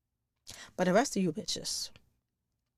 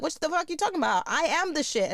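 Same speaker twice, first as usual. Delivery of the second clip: fast, higher, offended protest; mock indignant woman; 6 semitones higher than usual. Women who think they're the shit, mocked fast and higher. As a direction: act insulted and full of yourself.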